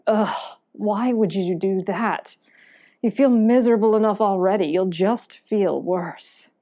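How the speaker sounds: lightly voiced discouraging thought, drawn out; groan, then slowly talk them out of it; nagging inner voice. Depressed voice to adventurer going training, mildly nagging inner voice. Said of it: "you hear that voice again going".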